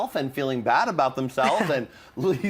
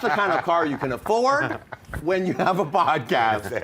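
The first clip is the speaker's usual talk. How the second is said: laughing mock advice; 3 semitones higher than usual. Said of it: "I would have been like".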